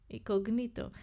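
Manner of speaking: "Incognito" with stress on the i before the end; Greek incognito. Shown as a demonstration. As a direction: put the accent on the second-last syllable of "Incognito". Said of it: "so you say it like me".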